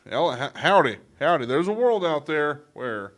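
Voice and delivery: hammed-up cowboy trailer narration. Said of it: "in your cowboy voice".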